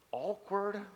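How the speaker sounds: drawn-out wry aside; a wry aside to the congregation; deadpan awkward. Acted. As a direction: let the word hang, wry and knowing. Comic one-word aside.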